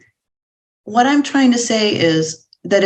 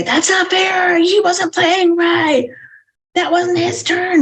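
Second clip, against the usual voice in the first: put-on whiny child protesting; 11 semitones higher than usual. Child who lost at Monopoly, mock shouting. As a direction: play the sore loser child, pitched way up. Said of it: "and then they say".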